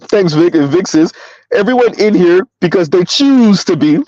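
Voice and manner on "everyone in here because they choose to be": emphatic, lengthened "choose"; stress on choose. Retold or imitated. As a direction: lean on "choose", drawing it out. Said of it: "Emphasis on the choose".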